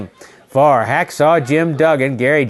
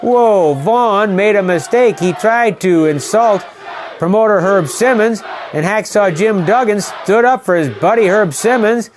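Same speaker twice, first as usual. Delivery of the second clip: excited shouting call; 4 semitones higher than usual. Real, not acted. Calling Duggan's two-by-four attack to viewers, excited shout. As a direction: yell the action as chaos breaks out.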